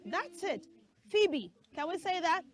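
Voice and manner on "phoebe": Phoebe as "FEE-bee"; long EE in both syllables of Phoebe; correct pronunciation. Shown as a demonstration. Teacher models it for children, Phoebe as "FEE-bee". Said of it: "the right pronunciation of that name is".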